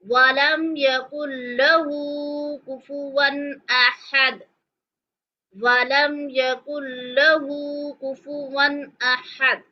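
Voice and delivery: drawn-out chanted recitation; slow Quranic recitation. Shown as a demonstration. Teacher reciting verse four slowly. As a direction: recite with long melodic vowels. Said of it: "अब हम पढ़ेंगे आयत number चार".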